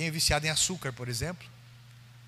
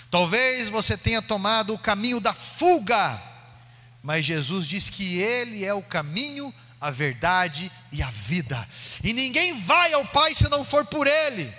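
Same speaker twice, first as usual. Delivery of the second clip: louder, rising preacher's call over music; full-force preaching; 5 semitones higher, 6 dB louder than usual. Acted. Preacher calls the congregation to Jesus, building to a loud peak. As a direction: build to a climax and hit the last line high.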